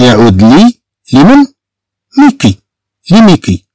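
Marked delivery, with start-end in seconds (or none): 2.2-2.6 ميكي said as French Miki, stress on the end. Shown as a demonstration. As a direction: say ميكي the French way, ending high then falling. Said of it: "تنطق". (نطق ميكي بالفرنسية)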